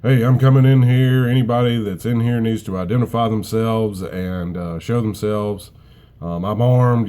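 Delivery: loud, commanding soldier voice; military voice. Retold or imitated. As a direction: bark it out like a soldier clearing a house. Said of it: "in my best military voice".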